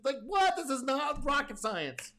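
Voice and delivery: a real burst of disbelief; incredulous. Real, not acted. Incredulous at obvious practice.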